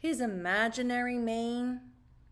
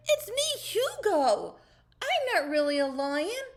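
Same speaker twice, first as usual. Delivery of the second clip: higher, louder calling out; shouting; 8 semitones higher, 5 dB louder than usual. Acted. Caterpillar shouting after the fish, calling. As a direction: shout to explain before he's gone. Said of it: "he shouted".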